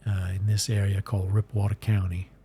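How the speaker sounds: light Southern Mississippi voice for Ransom Bash; Mississippi accent. Acted. Streamer narrating his Southern character, in a light Mississippi accent. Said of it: "he kinda talks like this".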